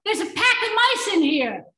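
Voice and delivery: rehearsed cry of alarm; mock yell. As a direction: act out a yell without full volume. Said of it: "And I yell".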